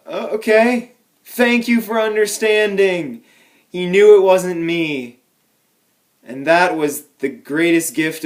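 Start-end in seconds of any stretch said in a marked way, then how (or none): 0.1-3.2 sheepish. Retold or imitated. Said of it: "And I was like".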